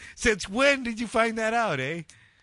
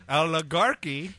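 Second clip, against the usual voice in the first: slowly counted out. Shown as a demonstration. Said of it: "Oh, that's four".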